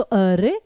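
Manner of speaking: "अरे" leaned on, then a slight pause; stress on अरे. Shown as a demonstration. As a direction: put all the focus on "अरे". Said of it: "एक ही शब्द पे focus दिया". ("अरे" पर बलाघात, ज़ोर देकर)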